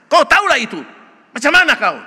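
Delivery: Jesus voiced in a light Batak accent. Pastor voicing Jesus to the scribe, Batak accent. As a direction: hit it in a Batak accent, blunt and direct. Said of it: "Pakai aksen Batak lah ya".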